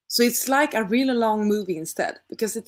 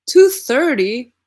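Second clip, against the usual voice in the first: surprised; 6 semitones higher, 10 dB louder, slower than usual. Real, not acted. Shocked at episode length.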